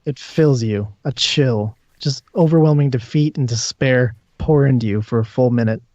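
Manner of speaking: measured narration with weighted pauses; game master's scene setting. Acted. Game master tells a player despair overwhelms the character, measured narration. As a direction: let each phrase of the description settle.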